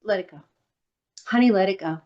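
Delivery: calm mantra. Real, not acted. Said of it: "self soothing mantra".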